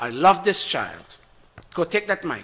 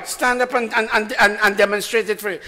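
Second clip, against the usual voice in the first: ordinary delivery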